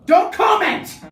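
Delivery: high, loud yell to cut someone off; loud don't-you-dare shout; sharp shout. Real, not acted. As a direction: bark it out, shutting them up. Snapping at the other person.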